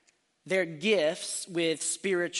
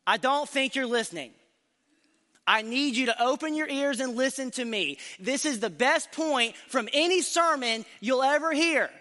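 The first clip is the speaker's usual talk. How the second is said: smug, puffed-up preacher, pitched higher; mock arrogance; 5 semitones higher than usual. Preacher to the congregation, hamming up mock arrogance. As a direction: oversell the point with playful arrogance. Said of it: "I hope you can hear the arrogance in my voice".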